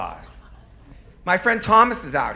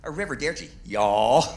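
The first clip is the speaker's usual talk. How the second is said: put-on southern accent. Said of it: "says it with a southern accent".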